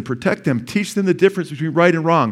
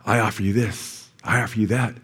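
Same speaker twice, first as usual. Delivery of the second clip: tempting enemy; 5 semitones lower, 4 dB quieter than usual. Pretend. Pastor voices the enemy luring kids away, sly hushed temptation. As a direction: lower and softer, a sly tempter's offer. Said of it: "the enemy's gonna lie to them and say".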